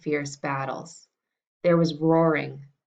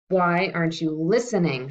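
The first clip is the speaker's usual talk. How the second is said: mild shout; 3 dB louder than usual. Acted. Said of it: "shouted the king".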